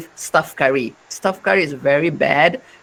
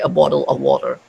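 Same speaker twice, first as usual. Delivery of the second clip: quick common British "bottle of water"; general British accent; faster than usual. Shown as a demonstration. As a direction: repeat the everyday British version. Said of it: "But most British, they would say".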